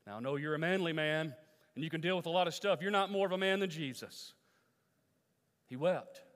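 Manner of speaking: loud, fast push at the tough guys; challenging. Real, not acted. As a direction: call out the manly men. Challenging manly men.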